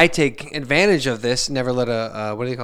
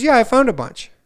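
put-on much higher, louder little girl; chirpy daughter voice; 11 semitones higher, 6 dB louder than usual. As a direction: voice the excited kid proudly. Voicing his young daughter.

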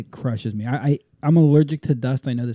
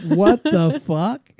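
slow, dragged-out shocked whisper-free gasp of disbelief; stunned disbelief; 5 semitones higher, much slower than usual. Retold or imitated. Two strangers exchange a look at the preachy guy, stunned disbelief. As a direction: stretch it out like you can't believe it.

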